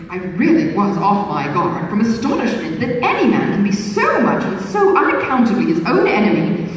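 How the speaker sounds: mock-polite flirtatious suitor; a hint of an insinuating beau; foppish gallant. Suitor's voice in read novel.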